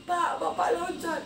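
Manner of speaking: retold call to father. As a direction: call after him as he jumps. Calling out to father jumping.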